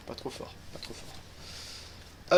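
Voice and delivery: slow breathy whisper. Real, not acted. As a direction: barely whisper it, very slowly. Keeping the sound down.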